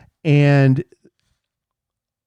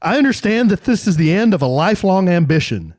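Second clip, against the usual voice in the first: announcer voice; 2 semitones higher than usual. Shown as a demonstration. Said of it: "try to do announcer voice".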